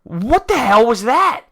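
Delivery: what the hell, disbelieving and slow; exasperated. Real, not acted. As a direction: fan fed up with the broadcast, exasperated. Ranting about the Fox broadcast.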